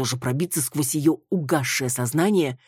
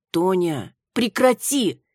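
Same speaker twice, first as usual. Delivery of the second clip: stern; 6 semitones higher, 4 dB louder, slower than usual. A narrator's reading. Маруся stops drunk friend.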